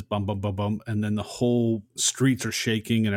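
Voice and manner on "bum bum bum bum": mild mouthed punching noises; quick string of spoken thuds, understated; imitated punch thuds. Podcaster mimicking the fight heard underground, imitated punches. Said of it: "you just hear punches".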